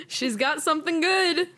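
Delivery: high-pitched, breaking up with laughter; real laughing. Real, not acted. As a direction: squeeze the words out through helpless laughter. Cracking up at the failed improvisation.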